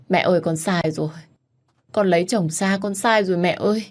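tearful plea. Acted. Daughter begs dying mother.

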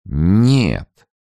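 put-on high, blurted drunken no; drunk man. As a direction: force it out like a drunk. Drunk Alferov answers with effort.

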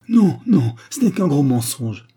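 loud, high cry of protest; outraged denial. Acted. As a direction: burst out denying it. Rosa cries out against murder charge.

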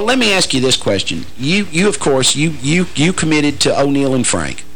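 ordinary delivery

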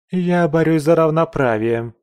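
defiant retort. A narrator's reading. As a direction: throw it back at him. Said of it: "парировала Памела".

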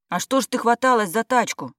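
high, loud angry reproach; sudden anger. A narrator's reading. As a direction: scold her for lifting the stretcher. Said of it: "неожиданно разозлилась Дарья".

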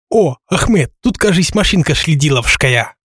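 excited lisping voice. Acted. Lackey's lisping cry.

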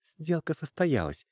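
every word distinct. A narrator's reading. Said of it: "отчётливо выговаривая каждое слово".

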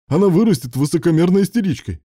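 high, loud, exasperated; heated complaint. A narrator's reading. Father warning about spoiling the daughter, exasperated. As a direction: rant it in protest.

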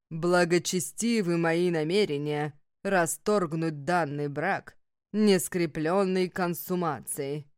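slow, measured ritual words; solemn vow. A narrator's reading. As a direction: recite it like a sacred oath. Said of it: "повторили мы в унисон".

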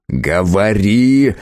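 slow, grim, menacing order; grim growl. Acted. Conan forces the shopkeeper to talk, a slow grim growl. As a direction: drag the order out darkly. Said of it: "мрачно прорычал Конан".

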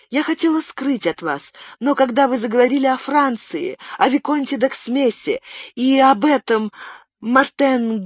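distraught high-pitched pleading, stretched in places; babbling like a madwoman. A narrator's reading. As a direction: babble it out in desperate panic. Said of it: "залепетала, как помешанная".

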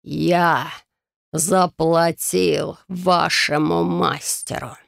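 slow dying rasp; death rattle. Acted. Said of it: "как предсмертный хрип".

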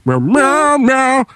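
high, singsong cat meowing; cat meows. Pretend. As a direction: meow the tune like a cat. Meowing the song.

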